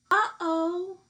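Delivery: high, loud surprised uh-oh. Acted. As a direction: gasp it out like the basket is empty. Empty basket discovered in story.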